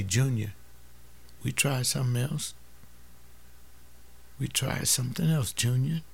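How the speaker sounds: put-on quietly steady the boy like a loving father; gentle father. Father gently reassuring son.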